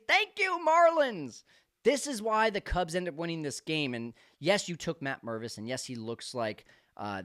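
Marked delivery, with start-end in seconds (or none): 0.1-2.9 mock gratitude. Real, not acted. Mock thanks to rival team.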